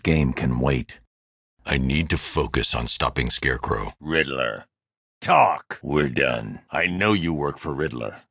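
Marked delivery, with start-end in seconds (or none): 4.0-5.8 one-word interrogation shout; barked command. Acted. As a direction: snap the single word at him. Interrogating a thug.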